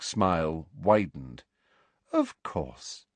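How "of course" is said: sweetly. A narrator's reading. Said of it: "she said sweetly".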